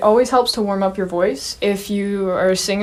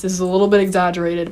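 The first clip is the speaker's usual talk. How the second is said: soft palate raised; faster than usual. Shown as a demonstration. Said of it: "kind of like this".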